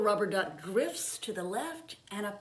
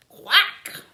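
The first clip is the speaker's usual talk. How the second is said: loud, higher quack; mother duck quack; 8 semitones higher, 17 dB louder than usual. Acted. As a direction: belt out a big duck quack. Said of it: "says the mother duck".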